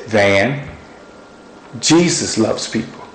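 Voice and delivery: calm and sweet. Retold or imitated. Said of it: "so calm, so sweet".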